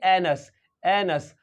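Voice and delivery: "एनस" slow, with a schwa in the second syllable; pronunciation demo. Shown as a demonstration. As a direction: model "एनस" slowly as two joined syllables. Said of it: "क्या पढ़ेंगे?".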